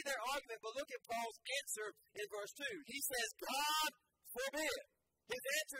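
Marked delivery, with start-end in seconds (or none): 3.4-4.8 ringing, emphatic God forbid; firm declaration. Retold or imitated. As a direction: declare it firmly, full of conviction. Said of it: "Paul is very firm".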